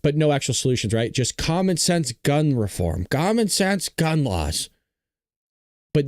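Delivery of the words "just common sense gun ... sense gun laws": slow, drawn-out mock slogan; mock shouting. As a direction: parrot a slogan, stretching each word. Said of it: "just shouting stuff to the skies".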